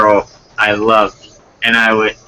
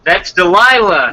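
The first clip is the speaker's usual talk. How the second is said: higher-pitched put-on girl; girl's voice; 8 semitones higher, 4 dB louder than usual. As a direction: play the girl with raised pitch. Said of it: "then I'll do the girl's voice".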